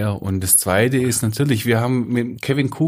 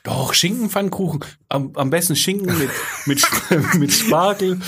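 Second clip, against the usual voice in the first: laughing; 6 semitones higher than usual. Real, not acted. Giggling about ham pancakes.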